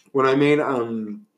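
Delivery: talking while chewing; mouth full. Real, not acted. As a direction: talk through a mouthful. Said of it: "Christian spit food out of his mouth".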